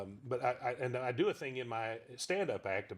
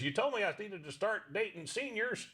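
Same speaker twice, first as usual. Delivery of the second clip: Pops puppet voice; 9 semitones higher than usual. Acted. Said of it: "He says".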